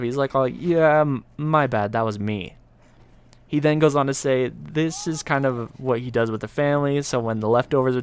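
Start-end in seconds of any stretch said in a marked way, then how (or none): 0.3-2.6 offhand, casual owning up; casual admission. Retold or imitated. Friend sheepishly owns up to the oven mishap, casual. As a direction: casually admit fault, no big deal. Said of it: "just casually pipes up".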